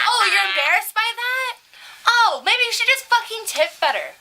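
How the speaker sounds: high, loud sarcastic outburst; mock-outraged scolding. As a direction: scold the stingy tipper at full pitch. Acts out scolding a bad tipper.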